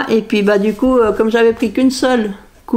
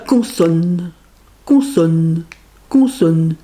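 mock letter-game call; 4 semitones lower, much slower than usual. Imite un tirage de lettres. (parodie de tirage de lettres, grave puis aigu)

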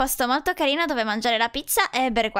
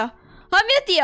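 slow joyful gasp; 6 semitones higher, 4 dB louder, much slower than usual. Acted. Just learned suspension lifted.

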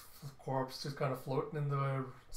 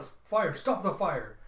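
alarmed shouting; 4 semitones higher, 6 dB louder, slower than usual. Acted. Ship on fire, alarm.

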